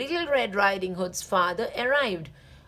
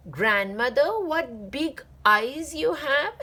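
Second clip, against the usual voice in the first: wide-eyed, slow exclamation with a higher pitch; exclaiming; 4 semitones higher than usual. Acted. Girl marvels at grandmother's big eyes, slow exclamation. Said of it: "exclaimed Little Red Riding Hood".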